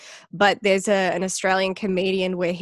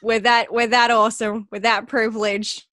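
louder, mock-proud sarcasm; sarcastic boast; 3 semitones higher, 3 dB louder than usual. Mocking a silly list about Australia, sarcastic bragging. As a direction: ham up fake Aussie pride.

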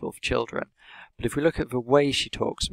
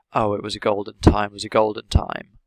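mock nostalgic adult; 6 dB louder than usual. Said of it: "She does a bit of a voice here".

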